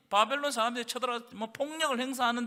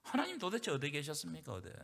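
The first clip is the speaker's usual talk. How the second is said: a hushed, softer plea to God; quoted desperate cry; 5 semitones lower, 10 dB quieter than usual. Retold or imitated. The war-era faithful crying to God, hushed and pleading. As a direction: ask it low, like a pained whisper to heaven. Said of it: "그러면서 신정론이 등장해요".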